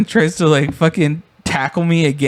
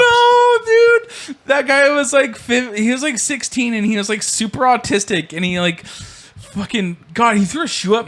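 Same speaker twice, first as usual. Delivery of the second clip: laughing; 8 semitones higher than usual. Real, not acted. Laughing reply.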